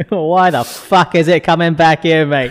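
lightly hammed-up Aussie complaint; mock-indignant Australian bloke. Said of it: "Australians are just gonna".

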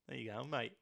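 Australian accent. Shown as a demonstration. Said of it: "That was fucking Korean".

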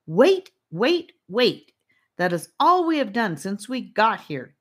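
high, loud frustrated complaint. A narrator's reading. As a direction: let the frustration burst out loud. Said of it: "Charlie said in frustration".

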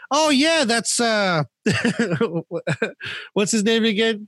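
imitating Danielle. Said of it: "Danielle goes to me".

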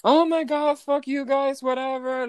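high, loud, whiny mock outburst; mock annoyed guests. Imitating rude guests cursing out the clerk, high and huffy. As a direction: imitate guests blowing her off with a huffy fuck-off.

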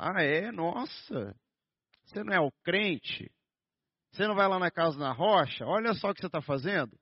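mild mock scolding of a churchgoer; mocking accusation. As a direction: catch the believer slipping up. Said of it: "vão ficar assim".

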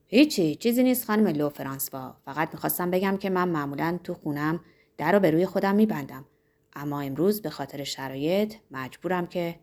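lightly voiced pompous pharmacist. Pharmacist explaining himself to the innkeeper, lightly pompous. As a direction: play the pharmacist, mildly self-important and low.

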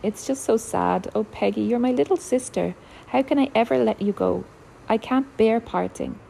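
gently weepy, pleading with her little sister; mild tearful plea. Acted. Older sister near tears begging Peggy not to leave, mildly tearful. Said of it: "Eily had begun to cry".

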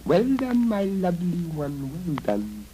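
squeaky mouse. Acted.

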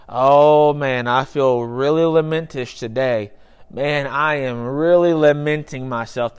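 drawn-out "Oh", lightly acted casual moaner; mock lamenting passerby. Imagined passerby complaining about feeling lamentish, mock lamenting. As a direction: put on a mild everyday moan. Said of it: "someone walking down the street just saying".

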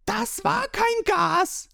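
very high, strained yell; indignant high-pitched outcry; shouting. A narrator's reading. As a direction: scream the protest, stretched out. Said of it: "schreit Ruffy los".

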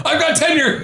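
high, strained cartoon voice; Mister Crocker voice. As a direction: squeal it like a cartoon teacher. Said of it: "like Mister Crocker from Fairly Odd Parents".

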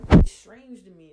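suddenly loud, hammering the word strange; loud exasperated declaration; loud and emphatic. Real, not acted. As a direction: throw it out hard and loud. Ranting about strange people.

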